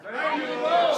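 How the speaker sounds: rising, then a loud Lord; meaning it. Real, not acted. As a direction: say it like you mean it. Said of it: "Say it with me like you mean it".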